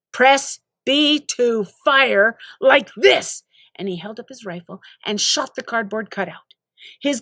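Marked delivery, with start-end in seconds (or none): 0.1-3.4 slow mechanical game instructor; slow canned drill-sergeant prompt; robotic tutorial prompt. Acted. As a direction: repeat it like a looping game line. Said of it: "robotic prompt".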